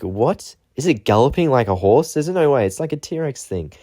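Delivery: mock how-is-that-possible tone; incredulous surprise. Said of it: "and it's like".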